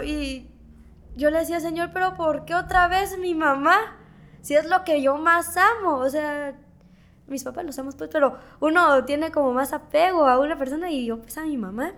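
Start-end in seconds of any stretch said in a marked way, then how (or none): 1.6-6.0 higher-pitched, understated pleading; retold tearful plea. Daughter asking God about her mother, retold tearful plea. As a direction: ask why, imitating a grieving prayer. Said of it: "ahí yo me quedé llorando".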